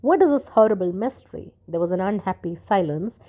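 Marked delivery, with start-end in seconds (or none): 0.0-1.5 higher, louder, halting words of horror; stammered shock. A narrator's reading. The curate stammers over his dead brother, shocked. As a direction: blurt it out, shaken and stumbling. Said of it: "He could only stammer out".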